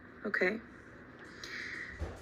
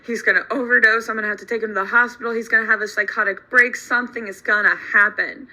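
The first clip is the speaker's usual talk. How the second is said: panicked; 5 dB louder, faster than usual. Retold or imitated. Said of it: "then starts freaking out".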